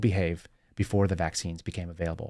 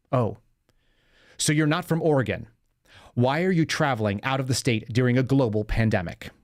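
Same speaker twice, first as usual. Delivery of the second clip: put-on condescending Oregon accent; 3 semitones higher than usual. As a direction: lightly imitate a smug liberal Oregon accent, talking down. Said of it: "with his liberal Oregon condescending accent".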